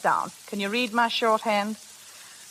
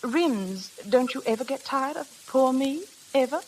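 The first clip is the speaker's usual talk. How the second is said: a hint of a pouting girl, rising at the end; lightly acted coy question; coy coached plea; 4 semitones higher than usual. Flora showing Bobby how to ask Rims, mock coy. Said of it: "You say".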